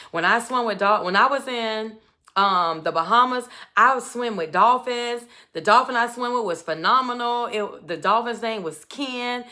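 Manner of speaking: lively, gushing retelling; uber excited, imitated. Man tells his date about Bahamas dolphins, imitated excitement. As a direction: imitate an eager man on a roll. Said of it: "so he gets uber excited".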